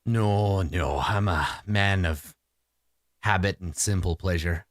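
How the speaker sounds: unhurried list of simple pleasures; contented homebody. Acted. Man of habit answering a visitor, unhurried character voice. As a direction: settle into the character's easy ways.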